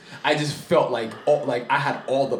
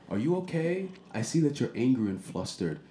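mock calm voice; 5 dB quieter than usual. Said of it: "in this calm voice".

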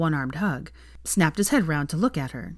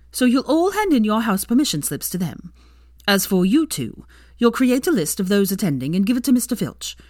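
higher, louder formal address to staff; stern headmistress; 3 semitones higher, 4 dB louder than usual. Acted. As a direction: speak like a brisk headmistress. Minerva gives orders.

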